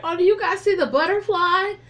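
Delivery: high, loud dreamy voice; spacey high woman. Retold or imitated. Imitating stoned Mickey on stage, high and dreamy. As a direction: sound completely out of it.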